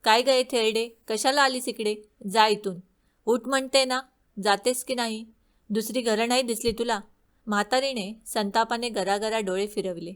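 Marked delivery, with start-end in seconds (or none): 0.0-7.0 a moderately raised, contemptuous shout; queen shouting. Acted. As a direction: chase the old woman from the door. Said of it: "राणी ओरडली".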